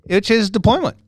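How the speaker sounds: accidental Scottish lilt; Scottish accent. Real, not acted. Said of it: "a little Scottish there".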